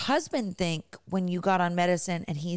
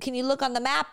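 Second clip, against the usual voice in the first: exasperated wife; 7 semitones higher, faster than usual. Retold or imitated. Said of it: "it's like when you say".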